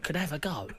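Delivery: lightly imitated Scouse manager; Scouse accent. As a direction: mimic a Scouser offering a fight. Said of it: "like, in his Scouse accent".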